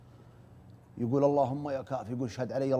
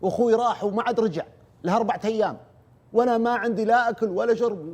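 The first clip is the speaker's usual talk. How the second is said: put-on retelling a terrified girl begging, higher and louder; frantic pleading girl; 8 semitones higher, 6 dB louder than usual. Teller voicing a trapped girl begging him over the phone, panicked plea. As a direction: beg for help in panic, raised high. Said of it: "يقول لا بنت تصيح".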